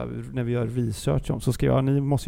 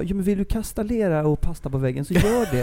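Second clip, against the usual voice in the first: lightly mocking a laid-back parent, higher and laughing; 4 semitones higher than usual. Teasing friend imitating her as a permissive parent, light laughing mock. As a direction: hipster parent letting the kids do anything, half-sung. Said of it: "när du uppfostrar dina barn så är det så här".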